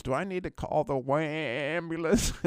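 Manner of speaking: put-on slow, drawn-out teasing kid voice; a sarcastic schoolyard jab, taken slowly; mocking kid quote. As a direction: taunt him like a smug little boy. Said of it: "the younger Bruce Willis goes".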